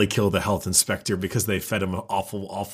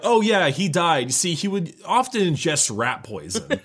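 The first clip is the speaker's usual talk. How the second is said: higher-pitched imitation of the co-host; mock matter-of-fact; 7 semitones higher than usual. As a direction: toss it off as if it were an everyday habit. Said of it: "the way you said, said it, it sounded like".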